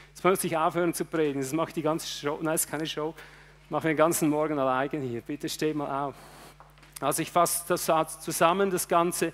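usual speaking voice

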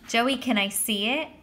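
a hint of eager girlish pleading; lightly voiced, wheedling girl; fawning girl. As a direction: ask sweetly, with mild adoration. Judy fawns over Joey.

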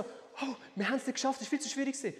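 high, mock complaining student; discouraged student. Teacher imitating pupils who failed the moves, mock discouraged. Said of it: "Meistens so".

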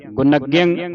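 ਗੁਣਗਯੰ slowly, with n sound and nasal ending; model pronunciation. Shown as a demonstration. Teacher models the verse word for a student, ਗੁਣਗਯੰ pronounced slowly. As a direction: say ਗੁਣਗਯੰ with a clear n and nasal close. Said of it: "ਉਚਾਰਨ ਕਰਨਾ ਹੈ".

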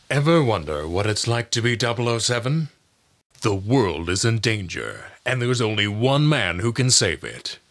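brisk, dramatic action teaser; action trailer voice. Shown as a demonstration. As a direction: build suspense over the danger. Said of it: "announcer and movie trailer voices".

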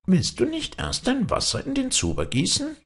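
high, sly goblin voice; cunning high goblin. A narrator's reading. Kobold voice in fairy tale.

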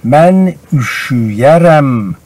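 careful slow demonstration; slow model reading. Shown as a demonstration. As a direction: read the example slowly and clearly.

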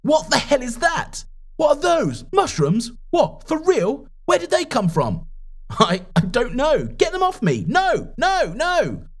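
high, panicked cries of horror; panicked shouting. Acted. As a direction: shriek it like mushrooms are sprouting on you. Boy finds mushrooms on body.

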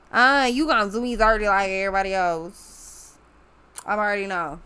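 lightly put-on voice imitating the querent; mock the complaint in a slight character voice. Reader mimicking someone expecting to be done dirty, lightly put-on voice. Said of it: "I don't know why I'm doing a voice".

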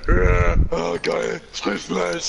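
high, loud excited squeal. Real, not acted. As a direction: squeal with delight.

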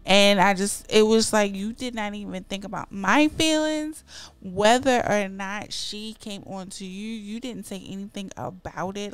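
loud, heated accusation; indignant accusation. Pretend. Accusing the partner of ignoring her feelings, loud.

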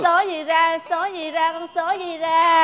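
bingo caller. Acted. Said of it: "em hô sổ số".

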